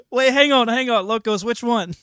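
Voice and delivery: loud, high and excited. Real, not acted. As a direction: burst in excitedly. Excited interruption.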